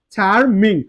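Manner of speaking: চার্মিং broken as "char, ming"; split into syllables. Shown as a demonstration. Teacher counting syllables for learners, চার্মিং split as "char, ming". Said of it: "এখানে চার্ম".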